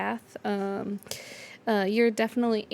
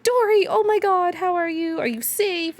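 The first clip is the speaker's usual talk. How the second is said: high, louder, rushing with worry; excited and anxious; 8 semitones higher, 7 dB louder than usual. Acted. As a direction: burst out to the stone with relief. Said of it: "they're just like".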